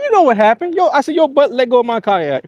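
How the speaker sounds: retold scolding. Retelling scolding the friend.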